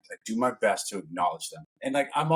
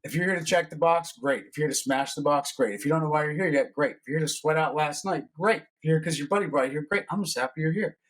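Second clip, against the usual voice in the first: higher, upbeat class announcement; rally the room warmly; upbeat coach on the mic; 4 semitones higher than usual. Retold or imitated. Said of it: "I'll be like".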